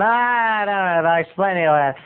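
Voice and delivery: Norm. Shown as a demonstration. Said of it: "Kinda like the guy on".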